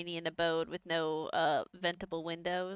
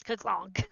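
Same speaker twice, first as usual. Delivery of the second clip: mouse clunk noise. Retold or imitated. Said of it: "like, it goes".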